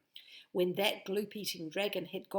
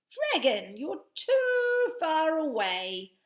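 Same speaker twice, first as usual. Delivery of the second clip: loud, higher call; 8 semitones higher, 10 dB louder, slower than usual. Acted. Betty calling to the far dragon, loud.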